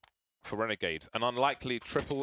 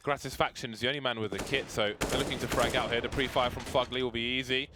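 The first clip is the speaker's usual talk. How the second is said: rising excited play-by-play; esports caster; 2 semitones higher than usual. Acted. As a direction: call the clutch as it builds. Live play-by-play commentary.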